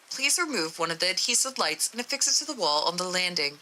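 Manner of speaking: even, measured report reading; matter-of-fact document narration; story narration. A narrator's reading. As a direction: read it like a formal case log.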